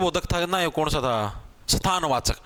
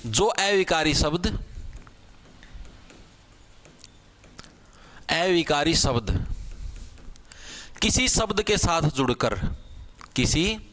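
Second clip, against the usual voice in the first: slow dictation; 4 semitones lower, 3 dB quieter, slower than usual. Shown as a demonstration. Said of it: "dictating the definition slowly".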